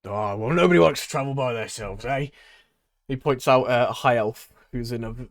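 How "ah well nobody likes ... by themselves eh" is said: showman voice. Acted. Tabaxi replies to dwarf.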